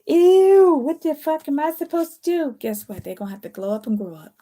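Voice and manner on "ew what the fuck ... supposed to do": higher, louder, slow put-on whine peaking in a shrieked "Ew"; mock baffled player. Reader voicing a foiled manipulator, higher mock whine. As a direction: play a schemer whose game has failed. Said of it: "they be like".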